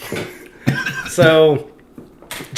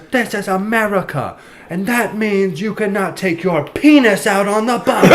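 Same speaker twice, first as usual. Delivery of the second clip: higher, slow, laughing through a mock scold; mock-stern lecture to the man on the bus; hammed-up indignant redneck woman; imitating a redneck woman; 7 semitones higher than usual. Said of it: "She goes".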